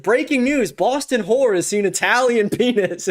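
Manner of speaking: imitated mock headline announcement; lightly hammed-up newsflash quote; breaking-news parody. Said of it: "his delivery on that".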